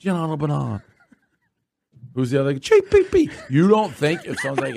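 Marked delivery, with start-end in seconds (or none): 2.5-3.3 high mock call. Saying what Steve would say.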